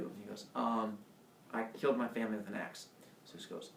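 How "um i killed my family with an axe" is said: quick, slightly lowered admission; sheepish confession. Retold or imitated. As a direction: own up reluctantly to a parent. Sheepish confession to his father.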